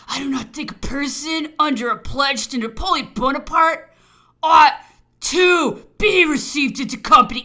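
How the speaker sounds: loud, high, scornful sneer. A narrator's reading. Governor refusing the officer's request, loudly sneering. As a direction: pour contempt on him at full voice. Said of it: "saying with a sneer".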